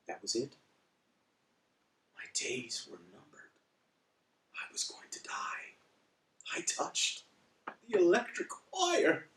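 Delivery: hushed melodrama, sinking to a near whisper; very soft, mock-tragic hush; mock doomed. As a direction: play a hammed-up deathbed confession. Mock doom after touching electric wire.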